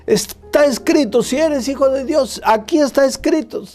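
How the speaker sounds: high, mocking sing-song; devil quoting scripture. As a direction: tempt him with a sly, high voice. Devil quotes scripture to Jesus.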